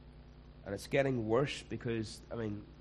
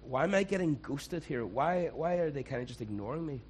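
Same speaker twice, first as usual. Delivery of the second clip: confused and hurt; 3 semitones higher than usual. Retold or imitated. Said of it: "you kinda go".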